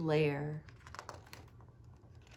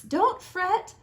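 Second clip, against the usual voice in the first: much higher squeak, a little louder; squeaky mouse; 9 semitones higher, 4 dB louder than usual. Acted. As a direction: squeak like a tiny mouse soothing a friend. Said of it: "Mouse squeaks".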